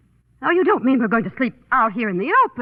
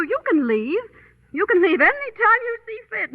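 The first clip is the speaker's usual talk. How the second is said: higher-pitched indignant complaint; 4 semitones higher than usual. Acted. Woman rebuking her travel companion for snapping at her, indignant. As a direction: tell off a travel companion, hurt and huffy. Quarrel over his bad temper.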